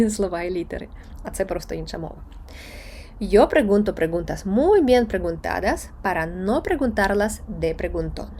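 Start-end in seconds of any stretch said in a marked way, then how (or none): 3.2-8.3 careful Spanish recitation in measured chunks; slow tongue twister. Shown as a demonstration. Teacher modelling slow practice of a tongue twister, slow. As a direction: read the long twister slowly enough to follow. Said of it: "вимовляєте повільно".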